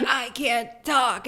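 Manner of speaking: imitated slow, struggling speech; strangled voice. Strangled woman answers her attacker, mock-struggling and slow.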